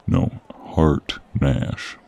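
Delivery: "Hart Nash" slowly, one word apart from the other; slow correction. Acted. Correcting the name of the doctor they seek, slow and separated.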